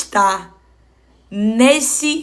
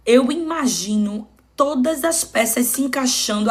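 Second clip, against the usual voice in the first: ordinary talk, nothing marked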